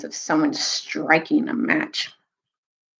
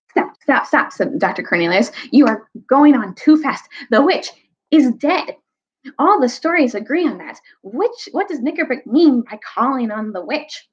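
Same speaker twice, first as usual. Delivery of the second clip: higher, urgent plea to halt; urgent interruption; 5 semitones higher than usual. Acted. Doctor steps between quarrelling sides, urgently. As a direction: break up the quarrel quickly.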